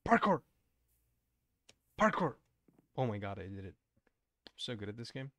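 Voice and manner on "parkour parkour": high, loud call on each jump; playful shout. Pretend. Streamer celebrating game jumps, high playful shout. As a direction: yell the word as you leap. Calling out jumps while playing.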